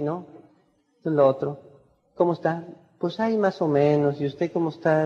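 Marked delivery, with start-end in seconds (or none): 2.1-5.1 listless, softer greeting, no energy; sin entusiasmo. Shown as a demonstration. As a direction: greet like you couldn't care less. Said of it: "Como que no parece estar muy entusiasmado". (saludo apagado y más suave, sin ganas)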